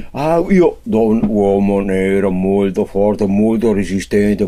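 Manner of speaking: low, slow, heavy broken Italian; broken Italian customer. Acted. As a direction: drop low and drag the words. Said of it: "comincia a parlare nero".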